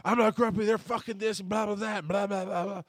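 high, mocking whiny protest; hammed-up grumpy husband brushing it off; mock defensive denial. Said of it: "there was a time and a point of like".

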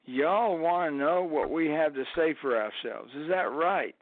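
folksy Alabama crowd-teasing; Alabama accent. Retold or imitated. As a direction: play the Alabama joker addressing a hostile crowd. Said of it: "Alabama accent".

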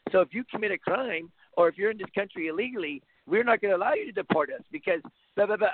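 lightly voiced nerdy student, a bit hushed at the start; half-hearted parody of a know-it-all geek on TV; mocking geek voice. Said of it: "pimple-faced geek on T V talking like".

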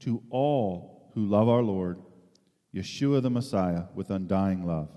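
steady, fuller public reading of a letter; scripture reading. Acted. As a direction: read it out to the congregation with weight. Reads scripture passage aloud.

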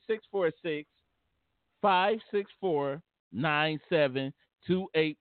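slow, deliberate digits, one by one; careful slow reading of a phone number. Real, not acted. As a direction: spell the phone number out slowly for callers. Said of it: "Why did you say it like that?".

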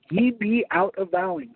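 slow, careful literal reading; reading slowly. Shown as a demonstration. Preacher reads the odd literal verse to his congregation, slowly. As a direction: spell out each word of the verse slowly. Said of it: "I'm gonna read this slowly".

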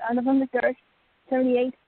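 muffled voice, mouth covered; talking through a hand over the mouth. Real, not acted. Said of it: "you sound very muffled".

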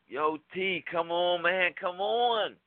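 urging him to leave with a slow call. Retold or imitated. Friends calling him away from the fight, urgent call.

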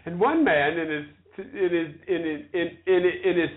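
stuck, repeating the phrase; stammering. Real, not acted. Woman reciting Shakespeare with jammed hearing, real stammer. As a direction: stumble over the same small words. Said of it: "feel like the damn King's Speech".

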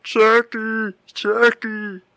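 loud high calling out for Chucky; scared kid calling. Retold or imitated. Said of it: "he's like".

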